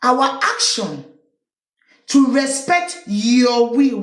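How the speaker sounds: drawn-out mocking echo of the statement; lingering sarcastic reread; slow, deliberate, mocking echo of the quote; slow repeat. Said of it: "He say".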